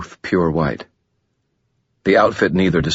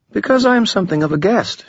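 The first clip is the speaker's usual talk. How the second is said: much higher and fast, teasing; Lashiel, playful; faster than usual. Acted. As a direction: toss it off lightly, a coy demon. Narrator voices Lashiel.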